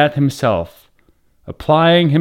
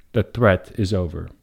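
inner thought; 7 semitones lower, 6 dB quieter than usual. A narrator's reading. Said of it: "he thought".

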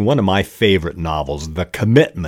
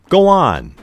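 quoted prompt; 11 semitones higher, 5 dB louder than usual. Retold or imitated. Example of a dialogue prompt.

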